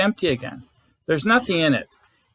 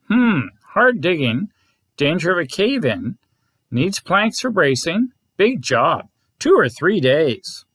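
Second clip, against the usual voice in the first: gopher expert voice; 2 semitones higher than usual. Acted. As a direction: weigh each word like a busy contractor. Gopher sizes up the job.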